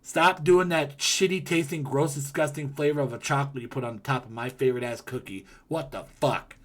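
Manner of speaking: ranting at Crumble, hammed-up outrage; mock angry rant. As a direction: pretend scolding of the bakery, loud and high. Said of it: "Is what I'd say to Crumble".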